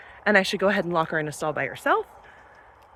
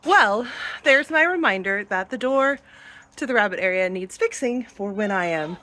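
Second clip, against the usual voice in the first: out of breath. Real, not acted. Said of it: "I'm so out of breath now".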